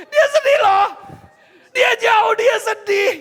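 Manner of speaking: high, loud shout; berseru lantang. Real, not acted. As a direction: shout it out over the crowd. Preacher calls out over laughing audience. (seruan keras bernada tinggi)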